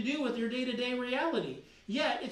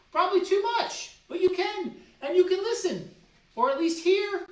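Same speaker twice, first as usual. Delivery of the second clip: much higher and louder, punchy questions; fired-up pep talk; 8 semitones higher, 6 dB louder than usual. Acted. Coach rallying viewers to feel grateful, fired-up and loud. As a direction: pump them up about what they have.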